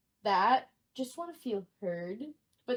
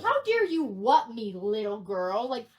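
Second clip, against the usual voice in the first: loud, higher-pitched mock tirade; outraged customer; 4 semitones higher, 4 dB louder than usual. Paying customer berating a trainee, loud and indignant. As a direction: tell them off in hammed-up indignation.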